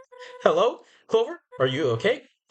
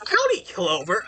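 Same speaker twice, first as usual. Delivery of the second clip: put-on southern accent; 5 semitones higher than usual. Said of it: "I've chosen the worst voice to do for these characters".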